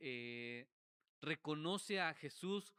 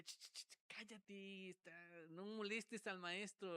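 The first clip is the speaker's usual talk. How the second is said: soft shushing, acting the annoyed crowd; imitated hushed scolding; mock hushing; 3 semitones higher, 5 dB quieter than usual. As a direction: shush someone under your breath.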